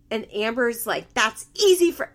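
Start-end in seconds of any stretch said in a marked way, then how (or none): 1.1-2.1 higher, louder mock snap; mock-irritated retort; retold snapping. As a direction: imitate an irritated comeback, pitched up. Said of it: "Amber snaps".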